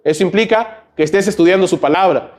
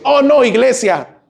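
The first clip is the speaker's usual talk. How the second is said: slow, higher, groaning reluctance; mock whining; 8 semitones higher, slower than usual. Imita quejas del domingo. (queja burlona y lenta)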